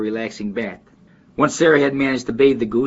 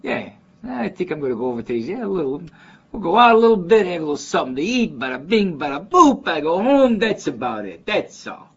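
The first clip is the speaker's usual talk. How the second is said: imitated Chicago Italian street talk, high and sing-song; Chicago neighborhood guy; 7 semitones higher than usual. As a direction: play the Chicago local with swinging, raised pitch. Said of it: "they still talk like that".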